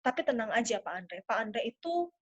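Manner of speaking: soft, low, reassuring pitch to a client; hushed, confidential sales appeal. Shown as a demonstration. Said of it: "intonasi yang lebih rendah, kemudian lebih pelan".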